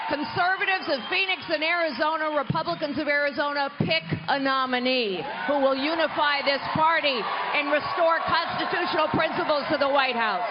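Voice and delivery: loud, rousing call to the crowd; rally the room like a stump speech. Acted.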